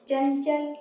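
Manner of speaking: चंचल said with the nasal n clearly sounded; nasal demo word. Shown as a demonstration. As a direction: model चंचल slowly, letting the n ring through the nose. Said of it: "अब आपको जैसे दिखाती हूँ मैं".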